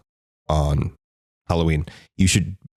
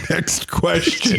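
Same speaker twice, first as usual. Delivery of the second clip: mock-formal; 9 semitones higher, much slower than usual. Mock moving on, laughing.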